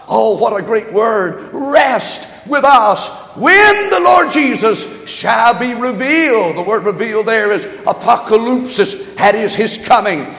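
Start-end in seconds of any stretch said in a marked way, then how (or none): 1.5-6.6 proclaiming shout. Acted. Preacher proclaiming scripture.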